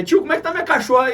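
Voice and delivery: a hint of a small girl asking about her dog; little daughter. Daughter asks her dad's friend about her dog, a lightly voiced little girl. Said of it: "Porque ela falou assim".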